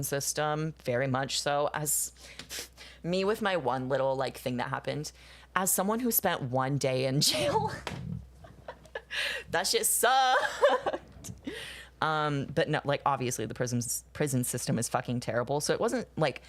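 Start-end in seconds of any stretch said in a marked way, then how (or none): 5.5-11.3 laughing. Real, not acted. Laughing about a day in jail.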